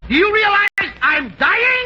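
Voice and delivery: hammed-up dying plea. Melodramatic plea to nurse.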